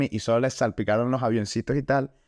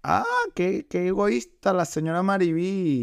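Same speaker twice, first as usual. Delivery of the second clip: mock outrage; 6 semitones higher, slower than usual. Mock scolding about the mother.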